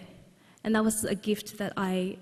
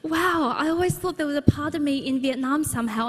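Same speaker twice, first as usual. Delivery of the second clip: amazed; 5 semitones higher than usual. Retold or imitated. Inner voice of wonder.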